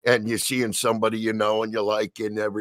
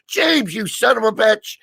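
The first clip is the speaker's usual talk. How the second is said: higher-pitched imitation of cursing him out; mock scolding; 8 semitones higher than usual. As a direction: scold him in comic outrage. Voicing Amy cursing at James.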